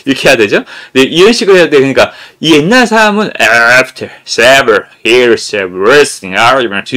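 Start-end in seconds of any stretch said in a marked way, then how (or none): 3.4-6.9 slow, loud, drawn-out "After several years of worsening argument"; old-school sound English. Shown as a demonstration. Teacher imitating old learners' drill, loud and slow. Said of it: "이런 식으로 했어요".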